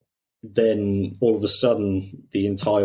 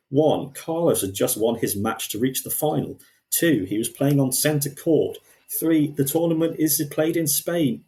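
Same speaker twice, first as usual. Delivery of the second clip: mock defensive tweet; 6 semitones higher than usual. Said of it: "and he said".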